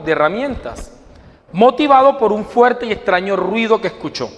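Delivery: measured, deliberate storytelling with weighted phrases; parable narration. A narrator's reading. Preacher tells the congregation a parable about a woodcutter, story narration.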